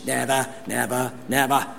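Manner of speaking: a hint of Churchill's British accent on "Never, never, never"; Churchill impression. Preacher quoting Churchill's speech, lightly British "Never, never, never". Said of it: "Winston Churchill's famous speech".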